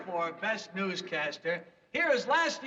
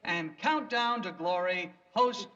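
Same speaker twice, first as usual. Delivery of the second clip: announcing award nominees formally; awards presenter. Acted. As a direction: read nominees like an emcee. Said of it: "the nominees are".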